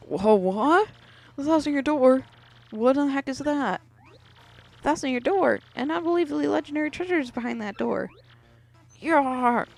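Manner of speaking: fired up to charge off at once; excited Bowser. Acted. Bowser hears about Thousand Year Door.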